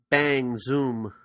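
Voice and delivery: lightly imitated sitcom catchphrase; Ralph Kramden. Podcaster quoting a sitcom husband's catchphrase, lightly imitated. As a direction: punch out each word as a mock threat. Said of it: "Ralph Kramden is saying".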